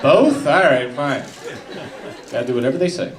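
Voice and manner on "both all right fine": high startled both. Acted. Killer accepts voices' orders.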